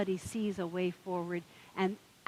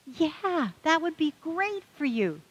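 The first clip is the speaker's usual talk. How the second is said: higher, louder encouragement; keen bartender; 9 semitones higher, 6 dB louder, slower than usual. Retold or imitated. Bartender cheering the duck on, higher and louder. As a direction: sell it with a little push.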